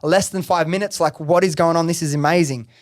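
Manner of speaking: buzzing retelling of a lucky moment; retold freaking out. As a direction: relive the rush of sales coming in. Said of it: "freaking out".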